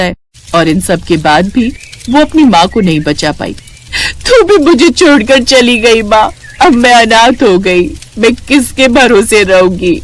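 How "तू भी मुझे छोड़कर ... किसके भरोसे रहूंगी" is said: grieving lament. Acted. Reena mourns her mother.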